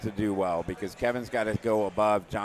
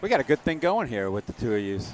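a hint of New York accent, said in passing; slipped New York accent. Real, not acted. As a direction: let a light New York accent slip out. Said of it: "my New York accent came out there".

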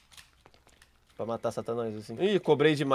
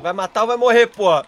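raging gamer; 4 semitones higher, 5 dB louder than usual. Real, not acted. Repeats demand to teammate.

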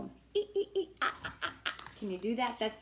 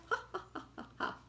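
penguin laugh; 10 semitones higher, 8 dB quieter, much faster than usual. Shown as a demonstration. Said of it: "Can you do that?".

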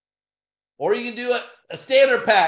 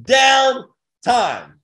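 hyped shout; 2 semitones higher than usual. Real, not acted. Hyping the pace.

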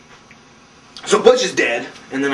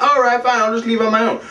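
higher put-on giving-in voice; mock huffy surrender; 6 semitones higher than usual. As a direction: give in as the caught schemer. Burke gives in to sheriff.

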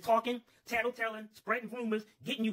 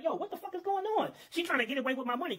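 startled yell; 8 semitones higher than usual. Retold or imitated. Sees commotion from field.

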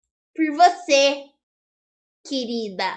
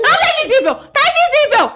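high, louder, laughing through it; laughing panic; 9 semitones higher, 4 dB louder, faster than usual. Real, not acted. Explaining to Bia why she missed, a high laughing panic. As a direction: giggle in frantic disbelief.

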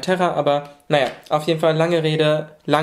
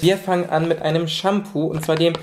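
sick, stuffy nose voice. Real, not acted. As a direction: talk through a blocked nose. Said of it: "wenn ich ein bisschen komisch rede".

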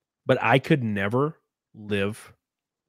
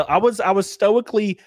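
laughing; 10 semitones higher, 6 dB louder than usual. Real, not acted. Laughing while retelling.

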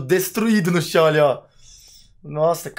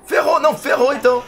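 panicked, higher and louder; being chased; 8 semitones higher, 6 dB louder than usual. Real, not acted. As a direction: yelp in alarm while fleeing. Fleeing the monster.

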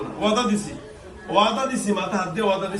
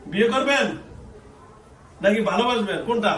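pressing question; 5 semitones higher than usual. Real, not acted. Presses silent person for an answer.

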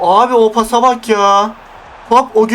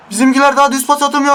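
"daha" hit, rattled off higher and fast; fast exasperated repeat; 4 semitones higher, faster than usual. Real, not acted. Gamer fumes about his team's passing, higher and fast. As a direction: repeat it faster, fed up.

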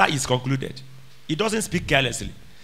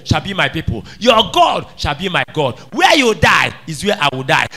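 declaiming vow; 2 semitones lower, 3 dB louder than usual. Acted. Preacher voicing Ruth's vow.

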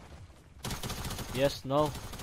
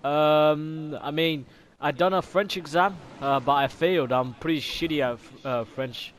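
lightly put-on Aussie accent, bloody and mate; hint of Australian accent; mock Australian accent. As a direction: play an Aussie bloke in a game lobby. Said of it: "I'm bloody Australian".

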